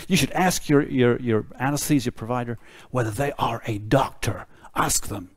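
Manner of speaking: a self-mocking, lightly done American accent; bad American accent. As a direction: put on a clumsy American accent, half-apologizing. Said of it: "I'm gonna do an American accent".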